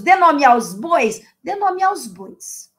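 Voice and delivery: "dê nome aos bois" said slowly, word by word; slow emphatic saying. Shown as a demonstration. Teacher stressing a proverb to viewers, slow and deliberate. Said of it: "Aquele famoso".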